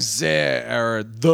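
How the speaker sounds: mock German accent slipping into plain English. Mocking an actor's inconsistent accent, patchy German accent. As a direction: imitate a bad German accent coming and going. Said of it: "'cause he'll be like".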